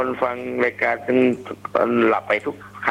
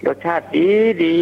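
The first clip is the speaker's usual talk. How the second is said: eager repeat; 5 semitones higher, 3 dB louder than usual. Shown as a demonstration. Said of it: "ให้ผมพูดนำนะ".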